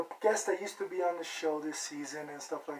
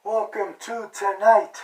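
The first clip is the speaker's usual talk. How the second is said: drawn-out, loud, higher host intro; show-opening announcement; 4 semitones higher, 10 dB louder, slower than usual. Acted. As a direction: announce the show big and slow. Host's big show opening.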